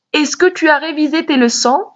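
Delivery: teacher demo of a question; question intonation. Shown as a demonstration. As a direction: rise at the end of Est-ce que tu as révisé tes leçons?. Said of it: "c'est l'intonation".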